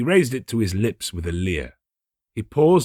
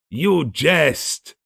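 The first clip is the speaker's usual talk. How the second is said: a higher, startled exclamation; a startled guest recoiling from the trowel; exclaimed; 8 semitones higher, 4 dB louder than usual. Acted. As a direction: recoil from the joke in disbelief. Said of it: "he exclaimed".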